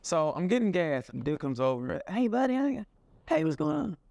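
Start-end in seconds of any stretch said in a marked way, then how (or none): 2.1-4.0 high-pitched small-town greeting; overfriendly stranger. Acted. Local man approaching a biker getting gas, overfriendly stranger. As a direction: greet him in a raised, put-on voice.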